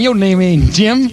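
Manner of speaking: drawn-out mock African American dialect; put-on dialect. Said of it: "You talking the same way I am".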